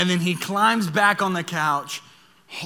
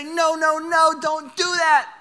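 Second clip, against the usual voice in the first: stern dad warning; 10 semitones higher, 4 dB louder, slower than usual. Retold or imitated. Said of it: "and say".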